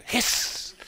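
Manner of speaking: breathy voiceless hiss; snake hiss. Shown as a demonstration. Holy snake shows how to scare people, sharp hiss.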